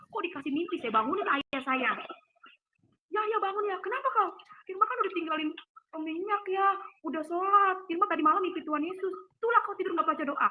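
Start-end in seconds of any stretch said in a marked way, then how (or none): 3.1-10.5 higher-pitched imitation of a chiding father; retold fatherly chiding, pitched up; father's reply. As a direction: act out dad's reply, voice lifted. Father's reply, acted out when woken.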